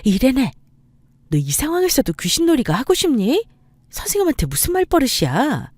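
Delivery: high-pitched, indignant telling-off; scolding mother. A narrator's reading. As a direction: rebuke your child for misbehaving. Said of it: "레네 어머니는 레네를 다그쳤습니다". (아이를 다그치는 엄마 말투)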